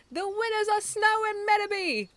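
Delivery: high, loud grinning declaration; referee's announcement. A narrator's reading. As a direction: announce the winners with a grin. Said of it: "Mister Referee declared with a grin".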